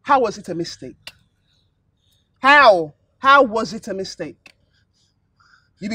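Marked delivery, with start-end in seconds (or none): 0.0-4.5 loud, furious questioning; madam yelling at the cleaner; angry shouting. Acted. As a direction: shout her down.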